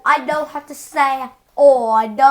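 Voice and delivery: mock British accent. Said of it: "in a British accent".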